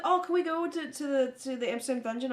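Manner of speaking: high, eager request; eager pleading. Retold or imitated. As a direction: ask like a hopeful kid. Retold friend begging to go.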